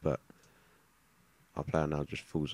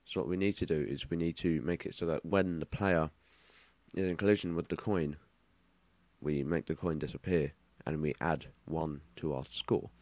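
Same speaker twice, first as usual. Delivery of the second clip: lisping S sounds through a retainer; slightly slurred S through a retainer; wearing a retainer. Real, not acted. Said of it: "this thing with the S sounds".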